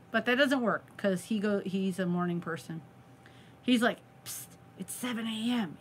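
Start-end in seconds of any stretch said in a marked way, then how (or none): 4.3-5.8 soft, secretive wake-up; retold hushed nudge. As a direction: imitate quietly rousing a sleeping partner. Husband retold waking her early.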